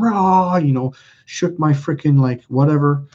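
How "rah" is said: mock angry roar; imitated yell. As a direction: throw in a wordless "rah" of rage. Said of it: "cussed and cursed and yelled".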